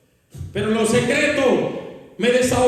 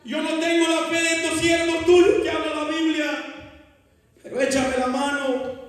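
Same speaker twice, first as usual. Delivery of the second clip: pleading prayer. Retold or imitated. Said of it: "le clamaba a Dios y le decía".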